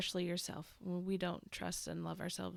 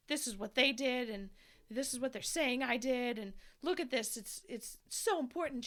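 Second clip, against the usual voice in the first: mildly agitated, higher-pitched retelling; imitated agitation; 4 semitones higher, 3 dB louder than usual. Fired woman laying out her case, mildly agitated. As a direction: press the case with a touch of urgency. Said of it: "She's getting so agitated and stuff".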